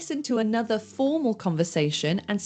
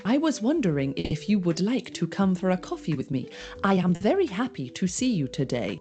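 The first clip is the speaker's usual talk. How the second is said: stiff robot voice, no contractions. Shown as a demonstration. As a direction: read it like a robot. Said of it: "you might sound a bit like a robot".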